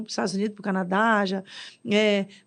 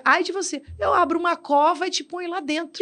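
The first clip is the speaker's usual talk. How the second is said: stern prophet; 6 semitones higher than usual. Retold or imitated. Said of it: "E é".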